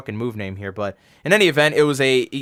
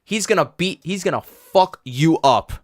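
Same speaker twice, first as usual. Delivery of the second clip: retold yell. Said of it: "Gato yells back".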